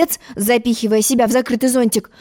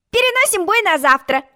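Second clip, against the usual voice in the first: high, glad announcement; high happy call; delighted; 9 semitones higher than usual. A narrator's reading. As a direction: cheer that the fight is off. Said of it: "обрадовалась Алиса".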